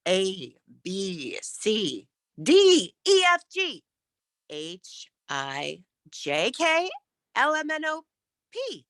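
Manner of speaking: varied alphabet. Shown as a demonstration. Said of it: "vary your, your language".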